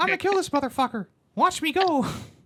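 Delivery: very high, loud, squeaky cartoon voice. Doing an action-movie line that comes out as a Mickey Mouse voice. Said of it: "Now I sound like Mickey".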